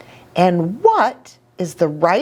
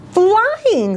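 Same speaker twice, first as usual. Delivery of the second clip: heron voice. Acted. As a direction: call it out like a soaring bird. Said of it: "said Sonia".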